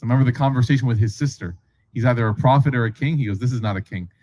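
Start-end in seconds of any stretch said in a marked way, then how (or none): 3.4-4.1 hushed realization. Retold or imitated. Adi's realization again.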